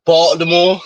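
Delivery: mock Baltimore accent on the city's name. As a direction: say it as Baltimore locals do. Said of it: "they know they have an accent".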